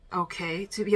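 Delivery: whispered okay; whispering. Real, not acted. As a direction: breathe it without voice. Whispered verdict on a film.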